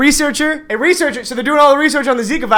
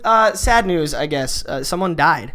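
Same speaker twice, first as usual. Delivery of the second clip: downcast announcement; 4 semitones lower, slower than usual. Real, not acted. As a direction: voice dropping lower for sad news. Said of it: "then you brought it down".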